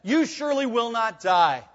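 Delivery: curt dogmatic reply, each word firm; abrupt, emphatic serpent. Retold or imitated. Pastor quoting the serpent to Eve, abrupt and dogmatic. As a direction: snap it out flat-certain like the serpent. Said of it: "The serpent's reply is abrupt, ... emphatic, it's dogmatic".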